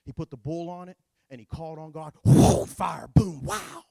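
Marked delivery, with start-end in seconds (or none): 2.2-3.8 excited awe. Acted. Fire falls from heaven.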